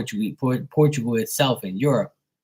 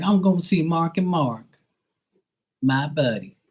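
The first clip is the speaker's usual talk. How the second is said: lightly put-on higher voice; put-on fan voice; 6 semitones higher than usual. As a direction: play someone excited to see a buddy, lightly. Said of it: "I love doing the voices and the accents".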